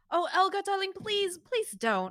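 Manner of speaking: high, fancy posh plea; lightly posh, pleading with a darling. Acted. Merchant calming his friend in lightly posh tones. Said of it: "in a really fancy, posh voice".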